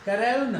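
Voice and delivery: करुण as kuh-ROH-nuh; English corona, said करुण with middle glide; correct English ending. Shown as a demonstration. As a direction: finish करुण on a short, weak uh. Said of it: "और फिर से वापस ए की sound".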